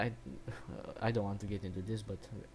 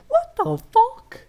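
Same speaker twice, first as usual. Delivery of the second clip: very high, drawn-out mock shriek; mock screamed reaction; 18 dB louder, slower than usual. Imitating the group's shocked reaction, hammed-up scream. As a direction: scream it slowly, far above your own voice. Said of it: "that was basically her reaction".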